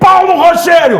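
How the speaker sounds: very high, loud, startled shout. Retelling shouting a colleague's name in the newsroom: imitating a shout. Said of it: "eu gritei".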